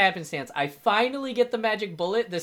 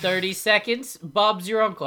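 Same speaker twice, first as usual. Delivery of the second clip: infomercial; 5 semitones higher, 6 dB louder than usual. Retold or imitated. Mock pitchman continuing the joke.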